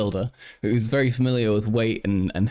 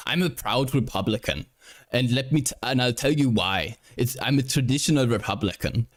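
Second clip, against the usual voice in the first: Schwarzenegger impression. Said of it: "Terrible accent, this is perfect".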